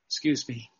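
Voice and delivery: about to sneeze, quiet; held-back voice before a sneeze; sneezing. Real, not acted. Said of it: "I'm gonna sneeze".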